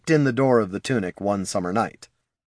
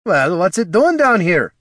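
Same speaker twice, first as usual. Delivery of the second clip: higher, louder baffled question; bewildered; 8 semitones higher, 5 dB louder than usual. Acted. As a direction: sound completely lost at the sight. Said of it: "with justifiable bewilderment".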